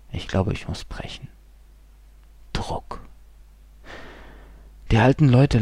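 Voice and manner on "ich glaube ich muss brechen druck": unvoiced nauseous whisper; sick, whispered inner voice. A narrator's reading. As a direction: barely breathe the words.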